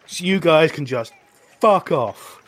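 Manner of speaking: high, scornful brush-off; armored woman telling guards to get lost; defiant Nord woman. Acted. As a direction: shoo the guards away with contempt. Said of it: "She goes".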